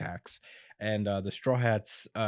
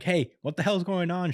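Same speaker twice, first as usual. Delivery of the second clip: Luffy's greeting; 8 semitones higher than usual. Retold or imitated. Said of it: "Luffy walks in and is like".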